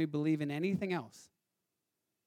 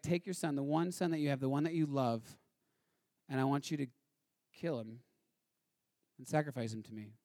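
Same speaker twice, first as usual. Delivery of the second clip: soft, sinking lower toward the end; hushed grave command; 4 semitones lower, 7 dB quieter than usual. Acted. God asking Abraham to sacrifice his son, hushed and grave. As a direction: let the command fall away quietly, gravely.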